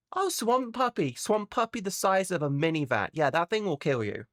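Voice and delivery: a hint of a breezy Australian local; mock Aussie local. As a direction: cheerfully warn of deadly things. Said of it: "every creature there wants to kill you".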